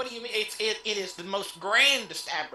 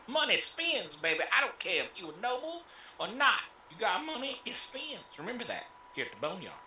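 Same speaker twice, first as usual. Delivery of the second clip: pimp host voice; 3 semitones higher than usual. Acted.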